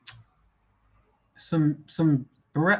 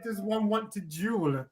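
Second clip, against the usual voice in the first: slow, softer lightly posh question; mock posh; 2 semitones higher, 9 dB quieter, slower than usual. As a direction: ask it like a pretend nobleman. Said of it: "I said".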